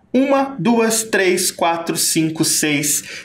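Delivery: counting the sounds one by one, slowing down; counting slowly. Shown as a demonstration. Teacher counting sounds aloud for pupils. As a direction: count each sound out deliberately. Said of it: "counting the sounds".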